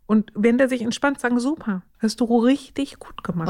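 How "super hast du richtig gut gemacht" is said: whispered praise. Shown as a demonstration. Praising calmed child.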